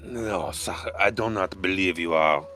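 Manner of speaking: cook character voice. Acted.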